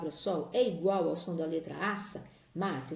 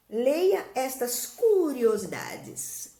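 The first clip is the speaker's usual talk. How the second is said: slow loud instruction; 4 semitones higher, 5 dB louder, much slower than usual. Shown as a demonstration. Teacher reads instruction to class.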